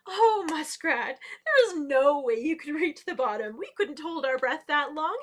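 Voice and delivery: loud, hammed-up derisive laughing voice; laughing mockery. A narrator's reading. The best swimmers laugh at muskrat, loud mocking. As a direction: draw out the opening, then scoff loudly. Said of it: "started laughing at her".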